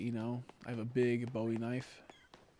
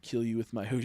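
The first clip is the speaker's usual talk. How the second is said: mock moose threat; 2 semitones lower than usual. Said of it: "moose nose".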